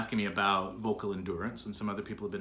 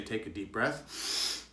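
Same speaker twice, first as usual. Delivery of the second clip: quoted instruction; 4 dB quieter, much slower than usual. Retold or imitated. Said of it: "when we say".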